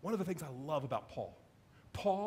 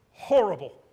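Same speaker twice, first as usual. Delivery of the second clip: anguished cry; 3 semitones higher, 12 dB louder, slower than usual. Retold or imitated. Telling wife the meeting failed.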